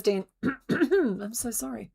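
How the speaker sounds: Mister Bone. Pretend. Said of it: "Mister Bone says".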